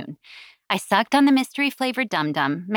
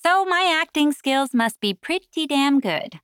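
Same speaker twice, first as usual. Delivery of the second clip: higher, lightly amused boast; said with a laugh; 7 semitones higher than usual. A narrator's reading. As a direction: toss it off with a touch of amusement. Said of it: "I said with a laugh".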